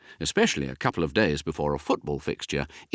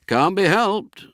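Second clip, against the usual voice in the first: philosophical; 11 semitones higher, 5 dB louder, slower than usual. Acted.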